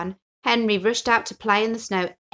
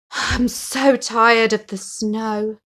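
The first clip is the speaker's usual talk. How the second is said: weary sigh; 2 semitones higher, 5 dB louder, much slower than usual. Acted. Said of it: "sighed Henry".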